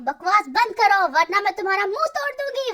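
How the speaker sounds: loud, furious order to shut up; angry threat. Acted. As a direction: threaten to smash his face. Princess threatens the mockers.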